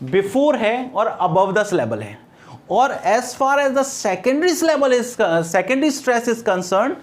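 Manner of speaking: very slow, spaced teacher delivery; slow dictation. Shown as a demonstration. Teacher slowly dictating stress rules to students. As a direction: spell the rule out slowly for notes. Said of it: "आपको ध्यान रखना है".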